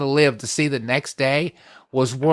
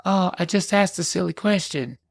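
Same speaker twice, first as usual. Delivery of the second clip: mock innocent victim; 4 semitones higher, 4 dB quieter than usual. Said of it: "play the victim and say".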